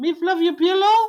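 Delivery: put-on maid's accent, pitched very high. Correcting another speaker's retelling of the maid, doing the maid's accent. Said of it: "You're not saying it with the right accent".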